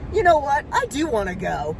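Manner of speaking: retold defiance, starting high then dropping; defiant comeback. Answering the driver's challenge in retelling.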